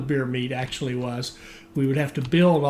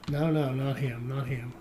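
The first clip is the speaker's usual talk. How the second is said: muttering to himself; 6 dB quieter than usual. Real, not acted. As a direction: mutter it to yourself. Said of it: "Sorry, I'm muttering to myself".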